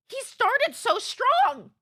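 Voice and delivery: high, loud, drawn-out exclamation; incredulous outburst. Real, not acted. Streamer reacting to the baffling Scottish clip, incredulous outburst. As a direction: cry out in amazed protest, slowly.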